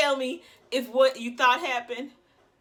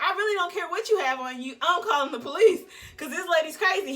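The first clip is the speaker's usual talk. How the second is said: laughing insistence; 4 semitones higher, 4 dB louder than usual. Retold or imitated. Insists on calling police, laughing.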